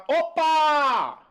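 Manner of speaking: loud bright high exclamation; excited opa. Shown as a demonstration. Teacher spotting a hyphen, excited opa. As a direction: pop it out like a catch. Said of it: "hyphen rule demo".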